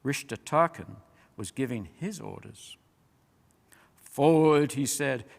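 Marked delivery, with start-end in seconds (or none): 3.9-4.7 louder barked command to the troops; commanding order. A narrator's reading. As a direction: send the army forward.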